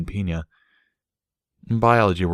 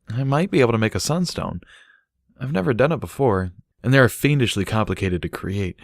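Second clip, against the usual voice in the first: slightly higher, musing unicorn; lightly voiced Bucky, thinking aloud; 4 semitones higher than usual. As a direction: work the idea out as you talk. Bucky plans sunstones.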